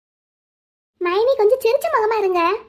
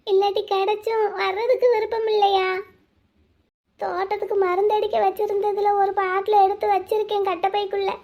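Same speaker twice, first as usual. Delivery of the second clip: tearful; 4 dB quieter than usual. Acted. Bride's despairing inner thoughts.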